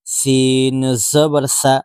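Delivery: slow, drawn-out letter-by-letter spelling; teacher spelling Arabic letters slowly; slow spelling drill. Shown as a demonstration. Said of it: "বারবার বানান করে পড়".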